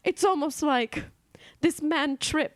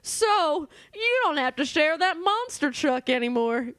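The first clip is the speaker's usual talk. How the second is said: bartender character; 3 semitones higher than usual. Acted.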